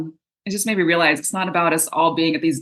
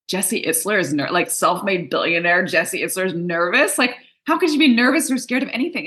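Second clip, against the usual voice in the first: incredulous disbelief. Retold or imitated. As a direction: sound amazed that he could be nervous. Disbelief that a billionaire is nervous.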